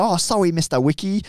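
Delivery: high, gushing fangirl voice with a put-on accent; starstruck police impression. Hong Kong police fawning over a medallist, starstruck impression. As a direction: squeal it like girls at a concert. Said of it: "girls at a pop star's concert".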